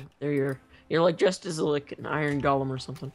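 cracking just-woke-up voice; rough, cracky morning voice. Real, not acted. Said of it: "I've got the ultimate voice crack morning voice".

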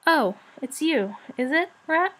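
drowsy, rather hoarse dragon; hoarse murmur. A narrator's reading. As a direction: murmur it as if just woken. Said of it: "he murmured in a rather hoarse voice".

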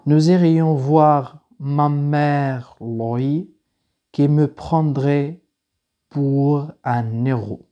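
very slow, phrase-by-phrase verse recitation; unhurried teacher reading poetry aloud; slow poem reading. Real, not acted. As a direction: recite it slowly, pausing after each phrase. Reads the poem aloud to students.

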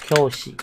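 教 in 教室 stressed, falling after it; 教室 with its accent on 教, like a fourth tone; stress on first syllable. Shown as a demonstration. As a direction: lean on the 教 of 教室. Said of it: "你这个重音哈".

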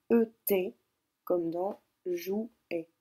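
comme dans jouet drawn out very slowly; slow dictation. Shown as a demonstration. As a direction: stretch out the example word jouet. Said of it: "Je vous ai donné l'indication". (très lentement sur jouet)

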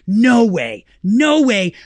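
loud, high imitation of astonished fans; amazed disbelief. Audience rushing up after the talk, loud amazed disbelief. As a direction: gush in mock astonishment.

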